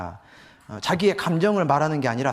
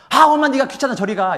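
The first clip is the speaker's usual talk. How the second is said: loud, high irritated brush-off; mock angry mom shooing the kid; annoyed mother; 9 semitones higher, 8 dB louder than usual. Shown as a demonstration. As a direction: snap at the child to go away.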